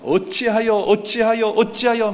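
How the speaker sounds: high, insistent repeated cry; acted wail of why. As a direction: call out in protest over and over. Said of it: "막, 막 소리 지릅니다".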